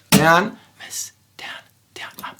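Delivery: first "down" high and strong, the rest very soft; accented first beat. Shown as a demonstration. Teacher demonstrates an accented strum, first "down" stressed, rest hushed. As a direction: hit the first "down", then drop to feathery quiet. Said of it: "playing the rest of it quietly".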